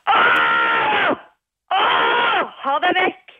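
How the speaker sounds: high roaring yells, then a shouted dismissal; acted angry scream. Actress at audition driving an intruder away, angry screaming. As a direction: scream like an angry lion warning someone off. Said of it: "vil du at jeg skal skrike det".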